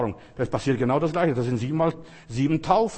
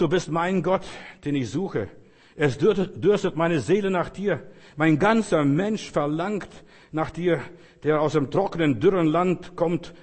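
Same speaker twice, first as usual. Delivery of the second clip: raised, declaimed prayer with stretched stresses; fervent psalm reading; 2 semitones higher than usual. Acted. Preacher reading a prayer psalm to close, fervent. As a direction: pray the psalm out with longing.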